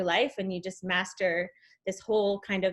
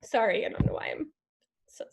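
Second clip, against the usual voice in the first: whispered apology through tears; barely voiced, choked with emotion; tearful whisper. Real, not acted. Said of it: "sobbing on here".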